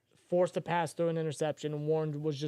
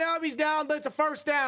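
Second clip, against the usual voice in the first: excited; 10 semitones higher than usual. Real, not acted. Live call, first down.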